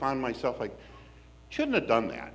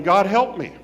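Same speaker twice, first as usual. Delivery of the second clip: loud, higher cry of panic; terrified yell; 5 semitones higher, 9 dB louder than usual. Retold or imitated. Rider on the coaster yelling a terrified plea. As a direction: yell it out like the coaster just dropped. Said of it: "I'm yelling".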